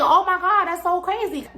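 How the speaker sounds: playing her own thrilled reaction; amazed, slightly giddy; mock starstruck. Fan recognizes her on street.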